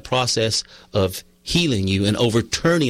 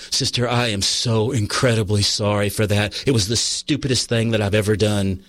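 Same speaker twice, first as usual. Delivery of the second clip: lower-pitched, earnest apology, lightly acted; retold sincere apology; 4 semitones lower than usual. Confessing to his sister-in-law years back, retold sincere apology.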